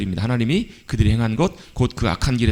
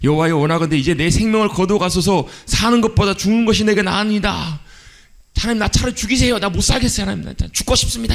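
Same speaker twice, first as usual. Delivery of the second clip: very high, fed-up, angry complaining grumble, acted out; 9 semitones higher than usual. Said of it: "아마 막 화를 내면서 아마 그랬을 거예요".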